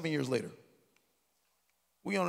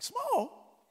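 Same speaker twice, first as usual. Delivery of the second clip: squeaky, much higher, laughing disbelief; mock outrage; 9 dB louder than usual. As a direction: overplay his shock at the word small. Son's mock outrage at mom.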